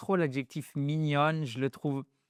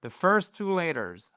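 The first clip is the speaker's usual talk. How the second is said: "first" stressed, falling; 2 semitones higher than usual. Shown as a demonstration. Teacher modelling "first" for French learners. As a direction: hit "first" clearly. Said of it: "Les deux premières lettres en anglais".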